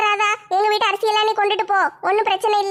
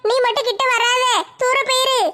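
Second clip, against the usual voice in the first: crying plea. Acted. Begging, crying heard.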